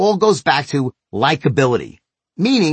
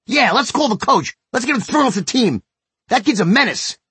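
imitating angry son; 8 semitones higher than usual. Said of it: "just as angry as he thought I was".

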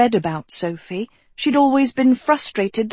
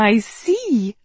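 chuckling; 3 semitones higher than usual. A narrator's reading. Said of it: "Sophie chuckled".

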